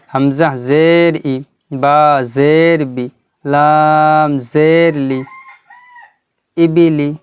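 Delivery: careful chant of ই, বি, লি, blended into short ইবিলি; held letter names with short final vowels; model spelling recitation. Shown as a demonstration. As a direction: demonstrate slowly letter by letter, then say ইবিলি whole. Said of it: "ভালো করে দেখবেন কিন্তু".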